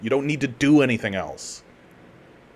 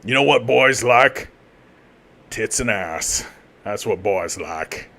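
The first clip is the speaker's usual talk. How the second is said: sly marketer voice; 4 semitones lower than usual. Retold or imitated. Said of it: "Lara Croft is very much like".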